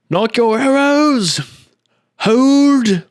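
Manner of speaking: high, loud, drawn-out bellowed commands; guard commander shouting. Acted. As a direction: bark orders down the wall as a guard captain. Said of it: "He had a blast just going".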